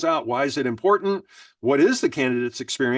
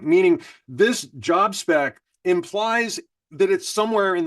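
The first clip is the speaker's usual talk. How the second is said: slow deliberate reading. Shown as a demonstration. Presenter answers the viewer question by rereading the prompt, slowly. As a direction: read the prompt slowly, phrase by phrase.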